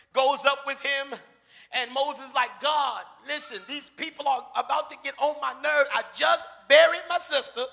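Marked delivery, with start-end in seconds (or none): 2.6-7.7 exasperated vent. Retold or imitated. Moses vents to God.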